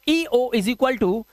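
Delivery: teacher to students noting the rule, slow dictation. Shown as a demonstration. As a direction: rule spelled out slowly, word by word. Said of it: "क्या rule बनाओगे?".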